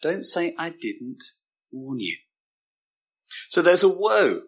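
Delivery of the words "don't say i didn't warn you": soft, grave repeat of a warning; voicing God's warning gently; compassionate warning. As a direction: let "warn you" fall away quietly. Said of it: "merciful and compassionate, he is saying".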